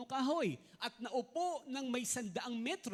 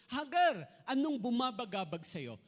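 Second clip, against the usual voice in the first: voicing the angel; 7 dB louder than usual. Angel's words read to Hagar.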